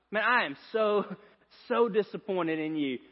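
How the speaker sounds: lightly voiced let-down father, pausing on "so"; a hint of stern dad, halting before the repeated "so"; disappointed dad. Dad to his son on the bed, mild acted disappointment. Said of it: "to look at you and go".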